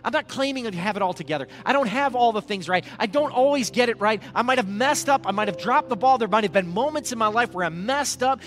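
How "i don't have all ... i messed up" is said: loud, driving sermon delivery; forceful preaching. Acted. Preacher telling the church of Paul's messed-up past, forceful. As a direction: press each admission home to the congregation.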